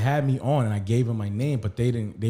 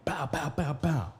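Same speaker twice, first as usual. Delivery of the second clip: higher-pitched mimicked door bangs; four punchy but soft spoken bangs; imitated banging; 4 semitones higher, 6 dB quieter, slower than usual. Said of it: "and I'm banging".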